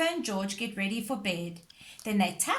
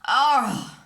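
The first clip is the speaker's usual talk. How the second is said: yawning; 3 semitones higher, 9 dB louder than usual. A narrator's reading. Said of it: "yawned Daddy Pig".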